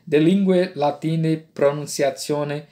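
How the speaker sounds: "lingue latine" said Italian-style as lingwe latine; ecclesiastical Latin. Shown as a demonstration. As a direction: Church Latin reading, "pronunciatione" softened as pronunsiatsione. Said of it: "é a pronúncia romana ou eclesiástica".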